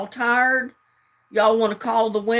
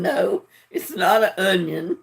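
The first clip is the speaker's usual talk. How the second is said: laughing. Real, not acted. Laughing at a viewer's guess.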